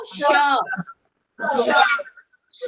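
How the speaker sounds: श as a long hushing palatal sh, not dental s. Shown as a demonstration. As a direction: hush it out from the palate. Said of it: "तालव्य श". (तालव्य श, दंत स नहीं)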